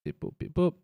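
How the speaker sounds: high playful robot beeping; robot beeps. Pretend. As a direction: beep like a little computer. Making computer noises while clicking.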